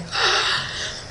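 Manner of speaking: soft, breathy gasp of amazement; startled gasp. Retold or imitated. Diver acting out spotting two sharks, startled gasp. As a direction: suck in air as if astonished.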